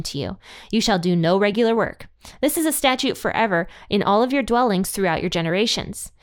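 steady, measured Bible reading; scripture reading. Acted. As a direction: read the verses aloud solemnly. Reads Leviticus passage aloud.

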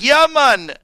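high, loud mock Jamaican accent; drawn-out, high Jamaican impression. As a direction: belt it out in a Jamaican lilt. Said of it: "the Jamaican accent".

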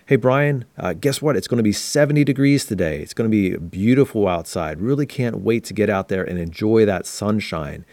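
bright upflection, pitch lifted at the start; upbeat good news. Shown as a demonstration. Telling Brian about a sunny day, upbeat. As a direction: share great weather news with lift in the voice. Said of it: "good news often comes with upflexion in the voice".

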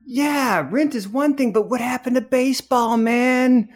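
a lightly voiced kid asking his grown self what happened; eight-year-old self. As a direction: plead like the boy who wanted baseball. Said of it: "This is eight-year-old you".

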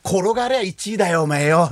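lightly voiced blunt politician; Ishihara. Comedian quoting the governor on the marathon, mild impression. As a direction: quote his blunt remark with a touch of impression. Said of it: "石原さん言ってました".

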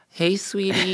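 high put-on baby talk. The speaker demonstrates baby talk to a partner, in a baby voice. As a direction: coo it high like a little child. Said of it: "if I talked in a baby voice".

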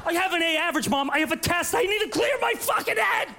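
high, whining protest; entitled teen. Acted. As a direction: complain like an honor student. Kid protesting to mom.

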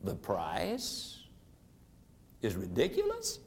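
very low and soft, questioning rise on "ridiculous". Shown as a demonstration. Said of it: "you simply lower your voice".

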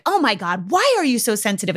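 mildly exasperated, pitch rising on the question; mock annoyed mom. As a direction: imitate a mother's irritated comeback, lightly. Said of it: "she got pissed at me".

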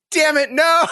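playing the producers who killed her off, laughing; mock anguished shout. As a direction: howl it like a showrunner who just lost a star. Imagined showrunner's dismay.

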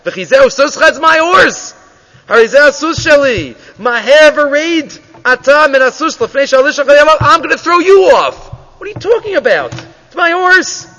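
a hint of a rich man insisting the horse is his; indignant retort. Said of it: "Says the usher".

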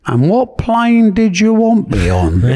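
high, slow squeaky Bugner voice; drawn-out high voice, eager to fly over. Retold or imitated. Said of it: "Joe Bugner had a very high pitched".

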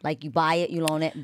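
"buy" and "loan" stressed as separate words, softly; broken-down name. Shown as a demonstration. Host breaking her maiden name into "buy" and "loan". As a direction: split it into "you buy it, you loan it". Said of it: "break my last name down like this".

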